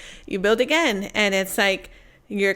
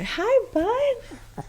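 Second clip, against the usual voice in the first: high pitch voice. Real, not acted. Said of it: "my voice goes high pitch real fast".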